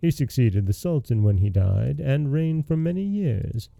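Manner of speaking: even, measured fairy-tale reading; story narration. A narrator's reading. Podcast host reading Aladdin to listeners, measured storytelling voice. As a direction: tell the tale steadily to the listener.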